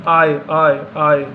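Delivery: आय said very slowly, a long gliding oy; slow teacher demo of आय; drawn-out oy sound. Shown as a demonstration. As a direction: drag out the आय glide. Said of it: "उसका उच्चारण कैसे होता है?".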